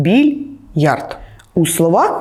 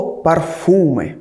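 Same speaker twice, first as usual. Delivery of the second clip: slow careful word; 2 semitones lower, much slower than usual. Shown as a demonstration. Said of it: "запам'ятайте слово".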